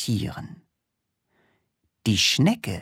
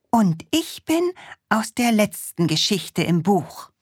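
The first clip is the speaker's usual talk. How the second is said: dragon voice, lightly voiced; 9 semitones higher than usual.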